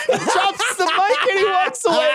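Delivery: high, cracking up while talking; laughing. Real, not acted. Host delighting co-host with imagined mic drop, laughing. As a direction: squeal the words out through laughter.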